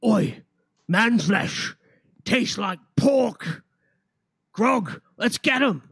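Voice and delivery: loud, high, slow troll voice; dopey cartoon bellow. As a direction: dumb hungry troll growling for food. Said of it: "you hear one of them say".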